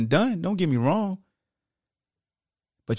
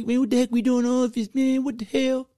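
frustrated outburst; 11 semitones higher than usual. Retold or imitated. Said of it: "you gonna say".

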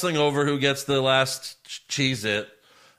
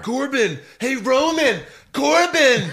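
put-on high, loud whiny kid calling; childish calling; 11 semitones higher, 5 dB louder, slower than usual. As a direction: call out like a five-year-old. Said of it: "Like a five-year-old".

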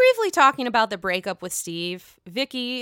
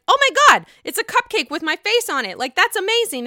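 much higher, louder gushing squeal; mock gushing; 10 semitones higher, 7 dB louder than usual. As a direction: squeal over a cute gift. Vicki gushing over cupcake.

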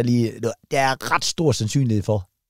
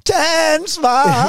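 shouted demand; 13 semitones higher, much slower than usual. Retold or imitated. Friend imagines yelling at the singer, mock shout. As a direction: bark the order at her like a scold. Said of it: "og råbt".

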